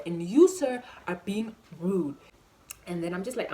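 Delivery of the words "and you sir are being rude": louder indignant "sir"; raised-voice rebuke; loud accusation. Acted. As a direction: call him out sharply. Telling off the waiter.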